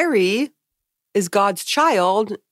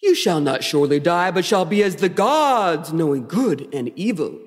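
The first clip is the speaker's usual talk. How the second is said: lightly voiced grand tempter, measured and theatrical; a hint of stagey villain; Michael Baum Lucifer; 2 semitones lower than usual. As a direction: pronounce it like a dramatic movie devil. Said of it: "my Michael Baum Lucifer".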